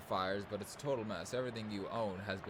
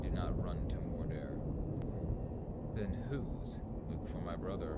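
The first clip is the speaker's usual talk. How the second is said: hammed-up mock Shakespearean tree talk; archaic fairy-tale voices; slower than usual. Voicing the woodcutter and tree in archaic speech. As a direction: play both woodcutter and trees in old speech. Voicing trees in a dream quest.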